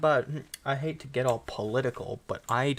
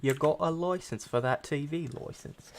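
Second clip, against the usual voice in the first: mock British busybody; officious British questioning; British accent; 3 semitones higher than usual. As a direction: put on British for the joke. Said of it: "British people be like".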